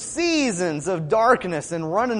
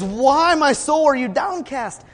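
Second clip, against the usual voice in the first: imitating David's cry, raised and louder; 7 semitones higher, 4 dB louder than usual. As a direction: call out higher, questioning your own soul. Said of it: "David cries out and he says".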